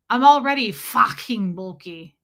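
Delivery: mock bold coach voice; lightly voiced brash West Coast friend; imitating Fancy Nancy. Streamer quoting Nancy from the Zoom call, mock bold. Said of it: "That's how she says it".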